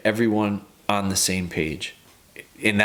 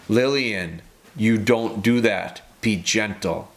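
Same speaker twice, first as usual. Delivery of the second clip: stern tone; slower than usual. Retold or imitated. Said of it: "as soon as we change that tone".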